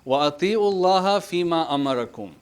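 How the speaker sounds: very quick chanted recitation, فِي مَا said as two words; Quran recitation. Acted. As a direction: rattle off the verse in a chant. Re-quotes verse after explaining.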